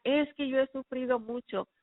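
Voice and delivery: a mother crying out that she has suffered; retold shouting mother. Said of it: "Lo que ella gritaba era".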